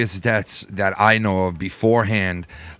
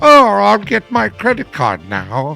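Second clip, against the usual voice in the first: put-on very slow, high, swooping sing-song old lady voice; 12 semitones higher, 6 dB louder than usual. Retelling how someone talked to phone scammers: imitating an old lady voice. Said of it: "He was talking like an old lady".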